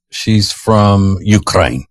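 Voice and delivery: Ukraine said slowly, each word drawn out; she's from Ukraine, slow and weighty; slow deliberate. Shown as a demonstration. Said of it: "let's just say she's".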